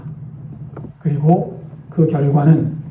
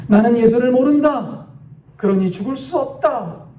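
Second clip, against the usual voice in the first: higher-pitched, understated panicked denial; fearful cry; 6 semitones higher than usual. A narrator's reading. Martyr seized by fear before execution, crying out in mild panic. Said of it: "두려움에 사로잡혀 떨리는 목소리로 외치기".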